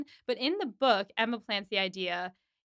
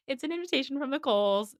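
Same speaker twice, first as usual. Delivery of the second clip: mock-giddy announcement, higher and quick; giddy, smug; 4 semitones higher, faster than usual. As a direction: gloat lightly, imitating someone thrilled and smug. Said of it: "getting all giddy and, like, smug".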